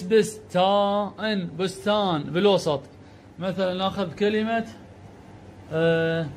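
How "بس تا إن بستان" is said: each syllable of بستان stretched out slowly, then the word whole; slow teacher's syllable spelling. Shown as a demonstration. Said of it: "وهذا الإس".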